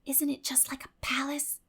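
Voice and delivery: awed whisper in a grand room. A narrator's reading. Diana whispers to Anne in the splendid parlor, awed whisper. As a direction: breathe it out in hushed wonder. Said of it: "whispered Diana".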